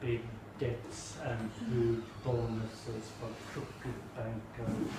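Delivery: low, soft sneering banker voice; mocking the banks. Mocking banks turning away small customers, low and soft. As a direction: send them away like a smug banker. Mock bank voice dismissing customers.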